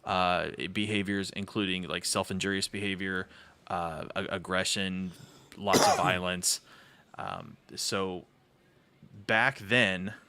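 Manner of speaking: story time voice. Acted. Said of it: "gonna go into his story time voice".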